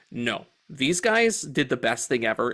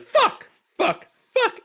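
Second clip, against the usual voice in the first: high, louder string of angry curses; imitated frustrated swearing; 4 dB louder, slower than usual. Keanu botching the nunchuck fight, frustrated curses. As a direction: spit them out, furious at yourself. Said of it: "and he's like".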